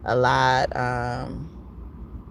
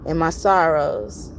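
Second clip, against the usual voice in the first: lightly recited poem, measured phrasing; poem reading; 2 semitones higher than usual. Acted. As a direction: read it like a love poem. Reads a poem aloud.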